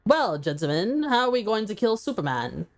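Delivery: a hint of a put-on scheming voice; funny voice. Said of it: "I should do more funny voices".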